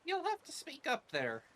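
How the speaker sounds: hard-of-hearing character. Acted. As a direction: call back like someone hard of hearing.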